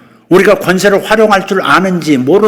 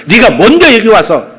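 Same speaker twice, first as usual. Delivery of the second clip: a hint of a raised, confronting voice; defiant challenge; 5 semitones higher, 4 dB louder than usual. Shown as a demonstration. Preacher showing the church how to challenge Satan, defiant. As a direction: confront the enemy head on. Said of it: "이렇게 말할 수 있어야 한다".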